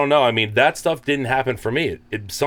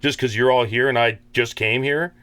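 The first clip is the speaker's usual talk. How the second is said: sarcastic inner voice; 4 semitones higher than usual. Retold or imitated. Imitating his sober sarcastic self.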